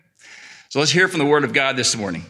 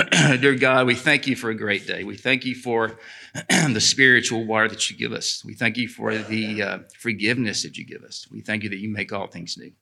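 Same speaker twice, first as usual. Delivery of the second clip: closing prayer. Acted.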